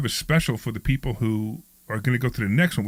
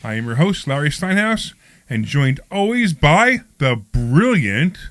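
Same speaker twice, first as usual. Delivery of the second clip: upbeat radio host introduction; show intro read; 4 semitones higher, 3 dB louder than usual. Acted. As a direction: announce the show with polished energy.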